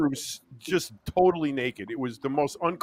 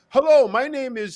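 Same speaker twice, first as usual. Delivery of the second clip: naked stranger; 9 semitones higher, 7 dB louder than usual. Retold or imitated. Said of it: "And he goes".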